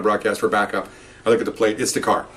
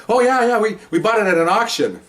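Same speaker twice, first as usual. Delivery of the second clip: put-on cheery old couple; 8 semitones higher than usual. Elderly owner tells the officer where they bought the car, higher and chirpy. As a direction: play the delighted elderly owner.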